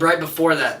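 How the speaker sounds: usual speaking voice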